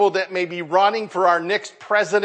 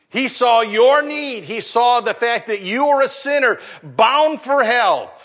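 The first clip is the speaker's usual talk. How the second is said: preaching with force; 4 semitones higher than usual. Acted. Preacher rising to the point.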